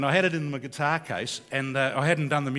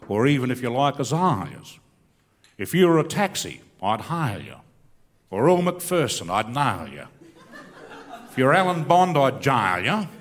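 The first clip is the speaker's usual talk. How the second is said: rhymed comic verse, hitting each rhyme; bush poem recitation. Acted. Comic poet reciting patriotic verse to the crowd, rhythmic. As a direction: deliver it like a proud bush poet, landing the punchline.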